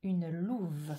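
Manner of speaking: word-by-word, slow and deliberate; measured reading with gaps between words; slow dictation. Shown as a demonstration. Teacher giving pupils the phrase to write, slow dictation. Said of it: "Alors la phrase c'est".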